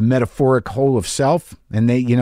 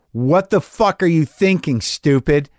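harsh self-talk; 3 semitones higher, slower than usual. Shown as a demonstration. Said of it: "self-talk ... a little harsh".

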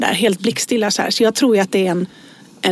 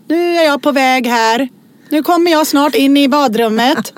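announcing one's approach; 4 semitones higher, 3 dB louder than usual. Retold or imitated. Ex warns jumpy partner he's coming, calling out.

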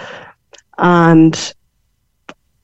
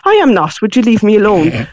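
indignant denial. Retold or imitated. Mum denies crying to her daughter, indignant denial. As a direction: protest it, brushing the question off.

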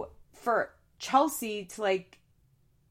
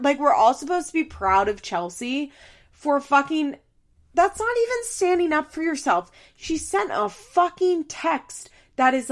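raised, indignant rant; worked-up exasperation; 5 semitones higher, 4 dB louder than usual. Real, not acted. Vlogger rants about Chelsea's text, worked up and exasperated. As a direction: get heated, pitch climbing as the outrage builds. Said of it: "I'm getting worked up".

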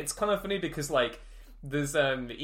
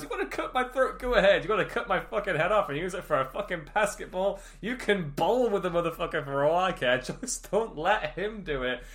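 freaking out; 5 semitones higher than usual. Retold or imitated. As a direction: rant it like you've lost it. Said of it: "he just freaks the fuck out and goes".

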